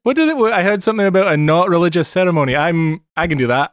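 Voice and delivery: high-voiced groggy offer; drunken Jack Aurelian. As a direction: pipe up groggily from a stupor. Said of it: "having just woken up out of a drunken stupor".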